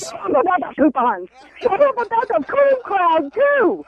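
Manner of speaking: irritated outburst rising sharply in pitch; riled up. Real, not acted. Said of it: "hearing you get all riled up".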